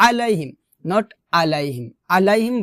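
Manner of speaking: "আলাইহিম" with plain glottal a; unpressed opening of "আলাইহিম"; wrong hamza. Shown as a demonstration. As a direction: say "আলাইহিম" lightly, without ayn. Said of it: "বলা যাবে না".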